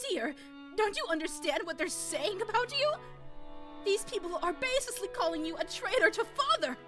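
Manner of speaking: upset wife pleading. Acted. Natsuhi confronting husband.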